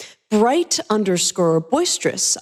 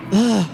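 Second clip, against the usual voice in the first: a whiny groan of protest; whiny ugh; 4 dB louder than usual. Acted. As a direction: whine it like a sulky teen. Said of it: "she whines".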